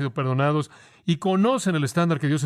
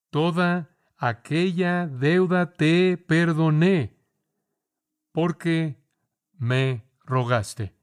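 slow, grave master condemning his servant; stern king's rebuke; much slower than usual. Acted. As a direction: draw out each word like a judge passing sentence. Preacher voices the king's rebuke.

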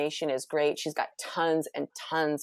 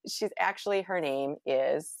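a bit high, losing the thread; stoned. Real, not acted. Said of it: "I'm, like, a little bit high right now".

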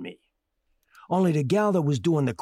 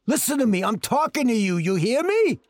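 insistent demand; 5 semitones higher than usual. Acted. Demanding to be heard.

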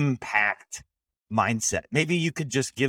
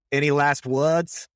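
put-on slow, raised Australian movie accent; mock-solemn Australian accent; 4 semitones higher, 4 dB louder, slower than usual. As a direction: play a slow, hammed-up Aussie film line. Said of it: "one of the classic war ones".

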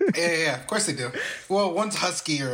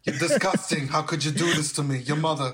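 lightly deeper scolding mom; mother voice. Retold or imitated. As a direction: play a scolding Jewish mother. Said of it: "Why did your voice get deeper for my mother?".

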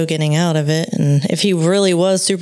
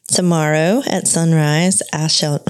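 slight Southern accent slipping out; a touch of Southern in the vowels; 2 semitones lower than usual. Real, not acted. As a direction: read it with an accidental hint of Southern. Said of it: "my Southern accent just came out".

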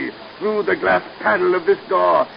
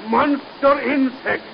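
gloating villain; 6 semitones higher, slower than usual. Acted. Mad scientist gloating over spiders.

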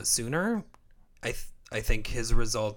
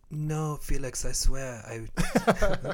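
higher-pitched, shaky attempt at a British accent; 4 semitones higher, slower than usual. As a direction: imitate a British player protesting, accent not quite there. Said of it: "that's not a good British accent".

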